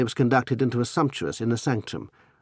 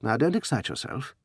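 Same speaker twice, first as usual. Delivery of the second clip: softer, calming tone; soothingly; 3 semitones higher, 4 dB quieter than usual. Acted. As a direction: settle him down gently. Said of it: "Anthony said soothingly".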